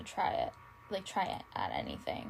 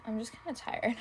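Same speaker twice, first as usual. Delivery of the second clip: breathy tired murmur to the camera; tired whisper; 3 semitones higher than usual. Real, not acted. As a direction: whisper it, worn out.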